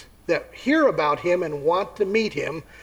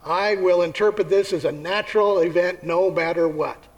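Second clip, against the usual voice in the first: stubborn skeptic. Acted. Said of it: "Another will say".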